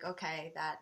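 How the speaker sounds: quiet, retold relief; relieved acceptance. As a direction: recall letting go, softly. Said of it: "I felt a tremendous relief".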